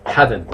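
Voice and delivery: "Hadn't" said as HAD-n, two clear syllables; pronunciation model of "Hadn't" for the class. Shown as a demonstration. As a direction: say HAD-n cleanly. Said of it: "that's correct, Mike".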